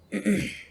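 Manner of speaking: loud throat clear. Real, not acted. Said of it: "Excuse me".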